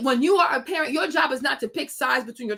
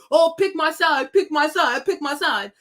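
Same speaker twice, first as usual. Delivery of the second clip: mock immature plea; 2 semitones higher than usual. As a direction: mimic an immature person begging. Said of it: "that's what immature people do".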